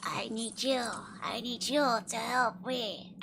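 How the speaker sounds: hag voice. Pretend. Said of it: "Try to the same hag voice".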